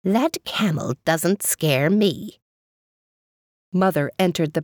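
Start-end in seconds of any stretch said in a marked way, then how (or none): 0.0-2.4 slow, bubbly gargle; gargling voice. Acted. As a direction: gargle it out smugly. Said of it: "The water gargled".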